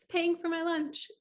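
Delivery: words break into a high laugh; laughing through tears. Real, not acted. Telling viewers about a stranger paying lunch, laughing through emotion. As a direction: laugh it out, overwhelmed and grateful. Tearful gratitude at a stranger's kindness.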